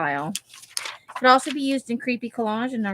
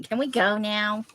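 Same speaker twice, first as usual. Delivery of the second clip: put-on slow, drawn-out teenager plea; whiny teenager. Thirteen-year-old asking to leave, mock teenage impatience. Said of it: "like, a thirteen-year-old thing to say".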